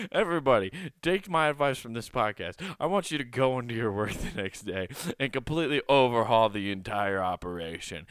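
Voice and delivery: rally the listeners with mock seriousness; mock rallying call.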